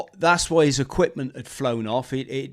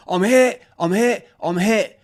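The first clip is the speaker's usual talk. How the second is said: panicked cry; 7 semitones higher, 5 dB louder than usual. Retold or imitated. Wounded soldier panics.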